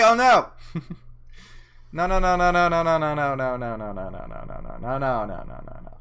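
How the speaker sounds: mock panic. Likes nearing eight hundred, panicking.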